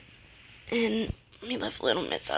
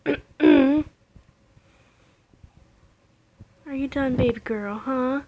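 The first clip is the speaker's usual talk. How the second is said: put-on higher, sing-song cooing to a baby; baby talk; 4 semitones higher, 6 dB louder, slower than usual. Mom cooing to her baby doll, tender baby talk. Mother talking to the reborn doll.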